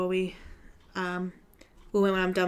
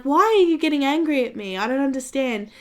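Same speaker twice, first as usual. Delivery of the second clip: high, baffled, innocent; retold confused protest, pitched up; imitated bewilderment; 5 semitones higher than usual. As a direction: act clueless at his anger. Confused by angry teacher.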